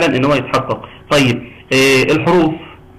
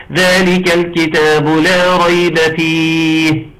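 slow chanted tajweed, drawn vowels; slow melodic recitation of ذلك الكتاب; Quran recitation; 3 semitones higher, much slower than usual. Shown as a demonstration. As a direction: recite it slowly with a clear lam in الكتاب. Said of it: "تقولوا لي القراءة سليمة ولا مش سليمة".

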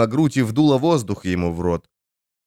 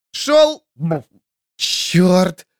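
panicked shout; 8 semitones higher, much slower than usual. Acted. Panicked calling, cursing.

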